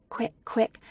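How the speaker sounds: ordinary delivery, nothing marked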